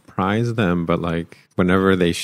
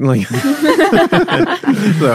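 slow, higher words broken by laughter; laughing; 5 dB louder than usual. Real, not acted. Guest recalls Hedge's joke and dissolves into laughter. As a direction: laugh so hard the words stall.

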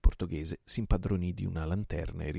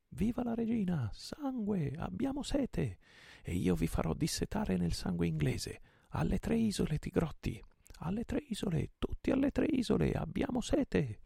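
much higher, chanting war cry; battle cry; 13 semitones higher than usual. A narrator's reading. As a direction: roar for blood with the crew. Pirates roaring, leader rallies.

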